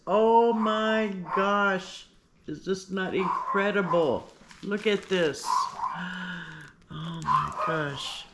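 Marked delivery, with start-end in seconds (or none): 0.1-2.1 delighted surprise. Real, not acted. Seeing Pam's gift up close, slow delighted surprise. 5.5-6.6 quiet sharp intake of breath in awe; soft gasp. Real, not acted. Spotting the bag's detail, a soft awed gasp.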